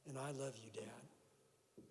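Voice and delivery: hushed, sincere affection; tender. Retold or imitated. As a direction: let it sink quietly on the last word. Recalls last tender words to father.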